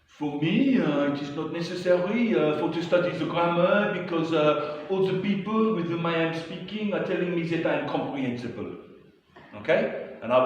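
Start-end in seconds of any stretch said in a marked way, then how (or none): 0.0-8.7 put-on raised, louder French-accented English; mock the French student's stilted English; lightly hammed French learner accent; imitating a French accent. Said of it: "So Pascal would say things like".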